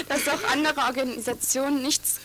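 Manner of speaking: words through leftover laughter; laughing while talking. Real, not acted. Student recounts rival flyer's claim, laughing through words. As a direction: still chuckling as you speak.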